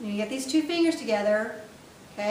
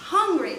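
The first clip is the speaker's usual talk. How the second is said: Hungry said higher and louder, as if starving; 5 semitones higher, 4 dB louder than usual. Shown as a demonstration. Teacher showing starving Hungry. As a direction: punch Hungry like you're starving. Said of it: "like you're starving".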